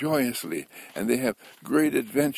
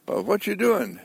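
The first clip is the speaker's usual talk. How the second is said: high curious caller; 11 semitones higher, 3 dB louder than usual. Retold or imitated. Caller phones Walter Mitty asking, voiced high and curious. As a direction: ask it like a nosy friend, pitched high.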